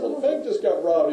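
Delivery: high, loud breaking of news; retold exclamation. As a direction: blurt it out to the clueless friend. Retold exasperated news to friend.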